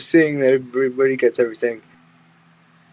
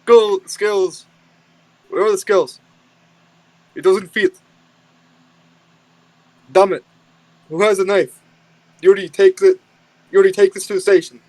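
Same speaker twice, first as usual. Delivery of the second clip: higher-pitched mock Russian accent; 6 semitones higher than usual. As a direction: play a grumbling Russian hiker, lightly. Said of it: "we have to do a Russian voice".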